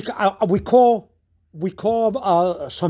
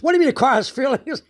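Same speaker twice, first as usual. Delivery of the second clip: higher-pitched incredulous question; amused disbelief; 4 semitones higher, faster than usual. Retold or imitated. Retelling his answer to sister's claim about feelings, incredulous. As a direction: query it in mock disbelief.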